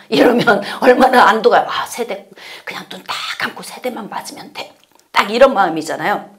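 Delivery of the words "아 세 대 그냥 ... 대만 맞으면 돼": soft whispered relief; a child whispering, relieved at only three strokes. Retold or imitated.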